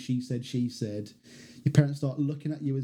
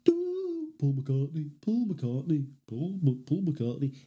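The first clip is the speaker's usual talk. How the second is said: Impression of a famous singer; slower than usual. Outtakes of him doing the singer, light impression. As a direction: lightly voice the singer saying his own name. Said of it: "outtakes of me just going".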